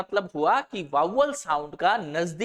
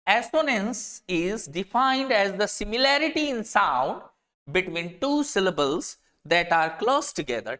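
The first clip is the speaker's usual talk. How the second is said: slow, deliberate dictation pace; slow definition reading; much slower than usual. Shown as a demonstration. Teacher reads a definition so students can copy it, slow dictation. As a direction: read it out word by word for students to note down. Reads dictionary entry slowly.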